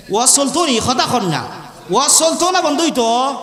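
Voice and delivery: preacher mimics Sylheti dialect to the crowd, lightly; rousing the crowd in lightly put-on Sylheti dialect. Preacher teasing the crowd in lightly voiced Sylheti dialect. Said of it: "এটা সিলেটি ভাষা".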